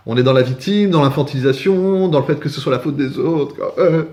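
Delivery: hammed-up poor-me moaning; mock victim whining. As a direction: stretch the endings like a sulky complainer. Mocking people who play victim.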